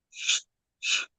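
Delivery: soft mock shush to silence him; a retold hushing sound. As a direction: imitate the cop's quiet shush. Cop shushing him while eating.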